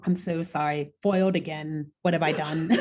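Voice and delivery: put-on lightly done posh English accent, barely shifted; a hint of a proper British gentleman. Imitating the professor to a friend in a lightly posh accent. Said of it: "I just have to do his accent".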